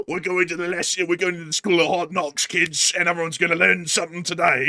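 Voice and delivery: mock-tough British marmot; lightly menacing British schoolteacher act. Marmot promising kids hard knocks, mock-tough British accent. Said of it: "all of our marmots are British".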